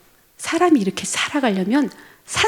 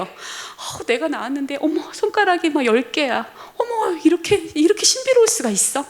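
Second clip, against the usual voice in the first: marvelling mother; 5 semitones higher than usual. Retold or imitated. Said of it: "감탄하는 눈빛으로".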